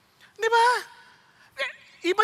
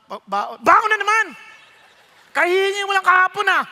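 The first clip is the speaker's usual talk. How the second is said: irritated father; 5 dB louder than usual. Retold or imitated. Irritated father scolding child.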